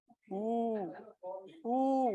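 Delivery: long high "oo" moan; drawn-out mock groan of illness; sick person's groan. Shown as a demonstration. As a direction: moan weakly like a patient. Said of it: "تو کیسی آوازیں نکال رہا ہوتا ہے".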